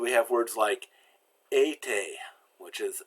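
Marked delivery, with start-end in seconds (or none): 1.5-2.1 été with both vowels pure 'ay', no glide; pure French A. Shown as a demonstration. Teacher giving an example word, pure A sound. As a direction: lips back, French été without a diphthong. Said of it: "It's a pure sound".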